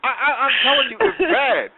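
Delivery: half-joking frantic complaint; exasperated outburst. Retold or imitated. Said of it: "I'm like".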